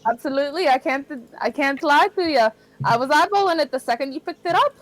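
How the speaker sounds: put-on Irish accent. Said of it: "Did she change accents?".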